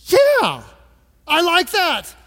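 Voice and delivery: high, bright yeah; delighted. Real, not acted. Pastor relishes the congregation's answer, high and excited. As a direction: cheer the crowd on.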